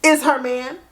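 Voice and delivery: high-pitched, incredulous outburst; shocked disbelief. Retold or imitated. Discovering her date is tagged by another woman, shocked disbelief. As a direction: relive the shock, voice shooting way up.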